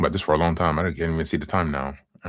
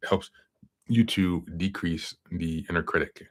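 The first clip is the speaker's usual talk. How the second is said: talking through hiccups; hiccuping between words. Real, not acted. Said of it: "Sorry, I'm, like, hiccuping".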